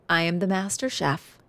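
lightly voiced proud boast in her own style; her own twist. Mother retelling son's boast with her own twist. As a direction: say it your way, a proud little flourish. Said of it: "I have a special twist on how I say it".

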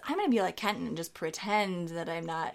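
high, whining self-talk; inner whiny voice. Retold or imitated. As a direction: complain to yourself in a high whine. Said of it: "I think".

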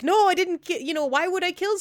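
high mocking protest; mocking imitation. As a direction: mimic her denial in a high mock voice. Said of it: "when you're like".

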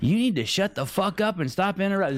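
high, laughing mock rant; mock annoyed fan. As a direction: squeal it like an irate fan. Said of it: "it's like".

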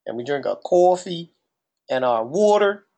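New Jersey accent on the key vowels. Shown as a demonstration. Poking fun at how Jersey talks, Jersey accent. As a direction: lean into Jersey "coffee" and "water". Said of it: "annoying with the way we talk".

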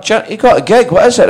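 high, loud imitation of a thrilled dad; excited dad. Dad hearing his son got a part, excited. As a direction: blurt it high, breaking off the call to his wife.

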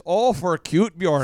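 light mock Minnesotan; Minnesotan accent. Minnesotan admiring a baby, light mock accent. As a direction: say it as a Minnesotan would. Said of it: "But in Minnesota".

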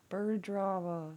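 slow, drawn-out repeat; slow savoring. Shown as a demonstration. Speaker slowly savoring the phrase for viewers. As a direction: let each word linger. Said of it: "Oh my God".

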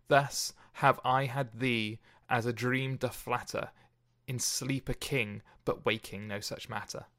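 measured, unhurried sonnet recital; poem reading. Acted. Host reading the sonnet to podcast listeners, measured recital. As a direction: read the verse evenly, letting lines settle.

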